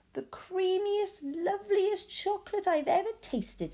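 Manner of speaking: put-on an old man drawing out his delight; lightly voiced Grandpa Joe, slow and savouring.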